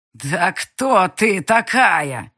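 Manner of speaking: loud, very slow angry growl. A narrator's reading. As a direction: growl it out menacingly. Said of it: "зарычал он зло".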